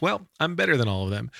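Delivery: high, cheeky boast; teasing self-praise; smug joke. Retold or imitated. Playful joke to the receptionist.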